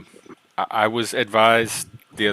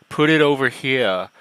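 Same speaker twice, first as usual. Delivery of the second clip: put-on Aussie accent; 3 semitones higher, slower than usual. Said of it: "there's certain people that say".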